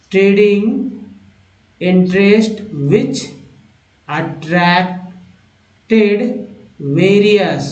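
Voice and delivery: slow, emphatic word-by-word English reading; slow model reading. Shown as a demonstration. Teacher reading the trade passage aloud for learners, slow and deliberate. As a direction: stretch and separate every word for learners.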